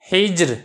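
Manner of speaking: हिज्र read slowly with a thin, light र. Shown as a demonstration. Teacher shows students a thin र in हिज्र. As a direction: carefully model हिज्र, keeping the र thin and light. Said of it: "रा को बरी करेंगे".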